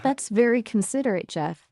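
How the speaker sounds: lightly exasperated, steering the talk away; playful exasperation. Real, not acted. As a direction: considerate words with a hint of playful exasperation. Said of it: "there's a certain tone in the way you said that".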